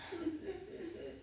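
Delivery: quiet high whimpers; faint pretend boo-hoo; little stuttering play sobs; soft mock crying. Sound of the snake crying in story.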